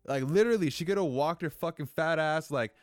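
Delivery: real anger boiling over at a diaper left on the doorstep; losing it. Real, not acted. Angry rant at the neighbor's dirty diaper on the doorstep. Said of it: "and I lose my shit".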